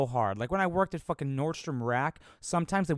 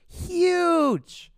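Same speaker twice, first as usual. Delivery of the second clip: very high, stretched out, louder; squeaky exaggeration; 7 dB louder than usual. Real, not acted. Bragging about the lumber, high squeaky emphasis. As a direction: squeal it to oversell.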